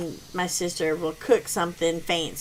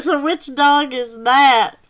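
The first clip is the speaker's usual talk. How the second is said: higher, louder, drawn-out question; curious question; 5 semitones higher, 7 dB louder, slower than usual. Retold or imitated. Neighbor asking about the snoring she hears, curious. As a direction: ask it loudly and slowly, raised pitch. Retells guest's puzzled question.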